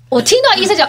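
sharp loud intake of breath; imitated shocked gasp. Doctor seeing the test outside, imitated gasp.

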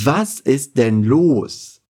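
slow, careful German model line; slow teacher demo; slow model phrase. Shown as a demonstration. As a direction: say it slowly for learners to repeat. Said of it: "Repete comigo".

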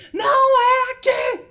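put-on high, slow, drawn-out childish yell; mock yell. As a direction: snap it at the caller like an annoyed kid. Criança gritando ao telefone. (grito lento e agudo de criança irritada)

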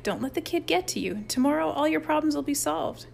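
mild, lilting reassurance; soothing. A narrator's reading. Frank calms Chip about Miller, soothing. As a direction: coax them into calming down. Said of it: "soothed Frank".

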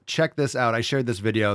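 normal talking voice

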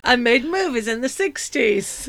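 slow, laughing mock film-star voice; hammed-up Cary Grant, half giggling; retold attempt at a Cary Grant voice; bad Cary Grant. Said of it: "impression of Cary Grant".

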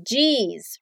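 dismayed jeez, falling; negative surprise. Shown as a demonstration. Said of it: "de surpresa negativa".

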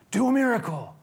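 high, loud mocking demand; demanding Herod. Herod ordering Jesus to perform, high and loud. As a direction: taunt him to perform. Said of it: "Herod says".

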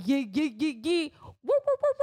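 rising chant into high whoops; celebratory hype hoots. Real, not acted. Giving big dog K Mac a shout-out, rising celebratory whoops.

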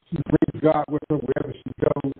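underwater. Real, not acted. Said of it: "it sounds like he's underwater".

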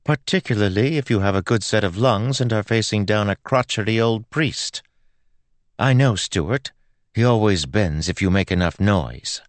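put-on high, breezy girl's voice; airy. A narrator's reading. Girl justifies her tactics to Joel, airy. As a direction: explain the tactic with easy confidence. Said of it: "she said airily".

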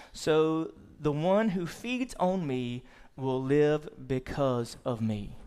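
slow, solemn verse reading; scripture reading. Acted. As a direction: give each phrase of the verse room. Reads scripture verse aloud.

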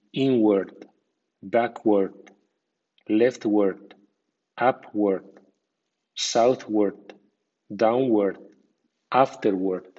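inward with ward reduced, like word; weak ward. Shown as a demonstration. Teacher shows learners the weak American ward, unstressed suffix. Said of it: "con acento débil y es más bien americano".

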